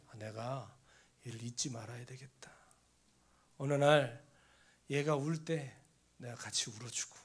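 soft, almost whispered resolution; hushed inner vow. Retold or imitated. Pastor recalling his silent vow to stand by his student, hushed. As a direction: speak it like a private promise to yourself.

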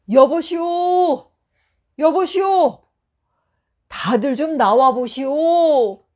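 high, slow calling out across the village; loud call. A narrator's reading. Traveler shouting through an empty village, loud calling. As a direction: call out loudly for anyone to come. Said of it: "큰 소리로 외쳤답니다".

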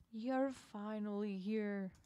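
drawn-out, slow sinister line; slow menacing octopus greeting; slow villain welcome. Acted. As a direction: savor each word like you've been waiting.

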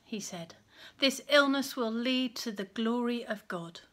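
put-on reading a Bible story aloud to children; gentle storyteller reading; story narration. A narrator's reading.

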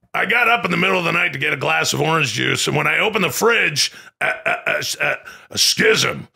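Alex Jones impression. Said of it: "do the Alex Jones".

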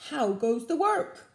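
the farmer calling from bed. A narrator's reading. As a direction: call out to the duck. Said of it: "called the farmer".

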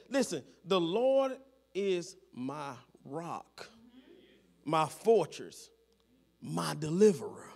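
slow, low, phrase by phrase; solemn declaration. Acted. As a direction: weigh each title, pausing between them. Quoting David's declaration with weight.

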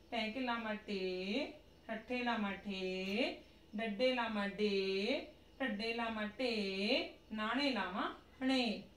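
sing-song drill reading; slow recitation. Shown as a demonstration. Teacher modelling the muharni drill aloud, slow chant. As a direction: chant each syllable slowly for the class.

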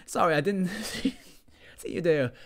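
breathless whisper; startled whisper. Acted. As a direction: whisper an apology. Subject startled.

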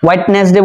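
ওয়েডনেসডে with every part sounded, "wait-nes-de"; common mispronunciation. Shown as a demonstration. Teacher showing a common mistake, mispronounced. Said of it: "এটাও ভুল উচ্চারণ".

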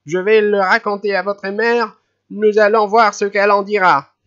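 high, loud furious scolding; furious old lady. A narrator's reading. Old lady furious at the running children, high and loud. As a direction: let the fury boil over. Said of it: "rouge de colère".

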